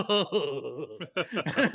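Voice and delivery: imitated giddy fanboy laugh; fanboy giggle. Fanboy walking away after meeting his idol, giggling. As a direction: giggle helplessly like a starstruck fan. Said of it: "this little fanboy inside of me".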